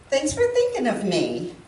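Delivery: sincerely grateful, lightly said; sincere thanks. Retold or imitated. Woman replies to cousin's Mother's Day text, sincere. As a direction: thank someone and mean it. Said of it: "You see the difference? I said".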